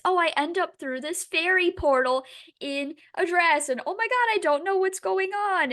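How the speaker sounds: rising into a high, flustered, mock-innocent ramble. Friend mocking the heroine's pretend innocence, in a high flustered voice. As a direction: play the helpless innocent, climbing in pitch. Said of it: "it's just like".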